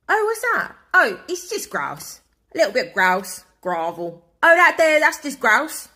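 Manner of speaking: high, sing-song mock waiter voice; mocking the server. Mocking the waiter's grouse announcement in a high voice.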